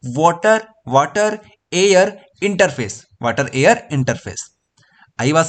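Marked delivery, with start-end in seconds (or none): 0.1-3.0 slow teaching drill. Shown as a demonstration. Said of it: "तो कैसे बताओगे?".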